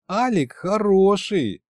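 put-on slow, high drawl of a young girl; drawn out. Snow Maiden answering Fedya about Alik, slow drawl. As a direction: stretch each word lazily. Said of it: "протянула девушка".

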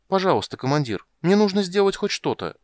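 high, eager begging; pleading. Acted. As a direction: beg the commander to let you go. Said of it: "умолял". (горячая мольба)

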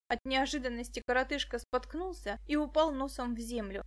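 ordinary delivery, nothing marked

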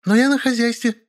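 put-on high child voice, indignant; small boy protesting; offended kid. A narrator's reading. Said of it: "возмутился Колька".

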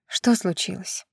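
soft, slow half-whispered mother's question; tender half-whisper. A narrator's reading. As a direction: ask it gently under your breath, to comfort a crying child. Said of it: "Нежным полушёпотом поинтересовалась она".

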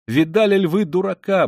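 high, hysterical scorn; wild derision. A narrator's reading. Katerina Ivanovna showing everyone Luzhin, high wild derision. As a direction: jeer to the whole room. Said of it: "бросалась она во все стороны".

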